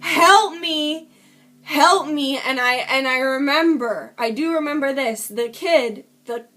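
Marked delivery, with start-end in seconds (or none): 0.0-2.4 mild mock scream, punched on help; retold scream for help. Retelling her screams out the window, mild mock yell. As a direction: imitate screaming for help with restrained force. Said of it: "I immediately just started screaming".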